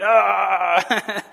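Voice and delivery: drawn-out frustrated "ah"; played-up wordless growl; mock fleshly growl. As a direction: groan in mock exasperation. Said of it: "it's easy for me to be like".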